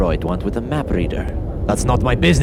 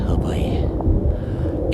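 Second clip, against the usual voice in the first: weary sigh; 6 semitones lower than usual. Acted.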